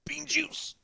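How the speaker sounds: high playful joke voice; silly high voice. Real, not acted. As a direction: say it in a goofy voice. Joking about coffee.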